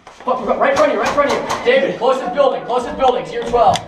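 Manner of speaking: urgent loud team callouts. Real, not acted. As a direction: bark out enemy positions.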